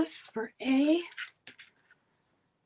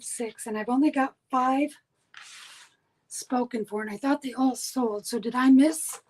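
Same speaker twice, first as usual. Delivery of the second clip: pen in mouth. Real, not acted. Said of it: "Sorry, I had a pen in my mouth talking".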